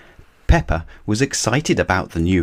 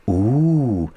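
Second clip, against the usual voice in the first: higher delighted ooh; excited ooh; 5 semitones higher than usual. Acted. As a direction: gasp with delight. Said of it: "gasped Peppa excitedly".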